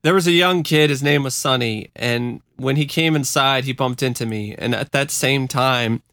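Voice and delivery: real emotion catching while reading; choked up. Real, not acted. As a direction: read on while getting choked up. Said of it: "I'm just getting choked up".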